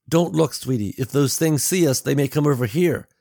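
a hint of urgent warning to his child; protective father. Father warns his daughter in story.

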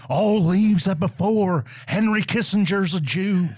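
Nixon impression. Doing Nixon in poem bit.

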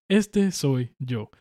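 slow, lightly voiced cartoon rat; Remy rat voice. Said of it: "Así como con la voz de Ratatouille".

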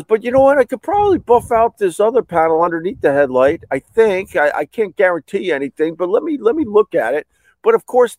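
high-pitched hedging tradesman; imitated repairman. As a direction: pitch it up as the helpful repair guy.

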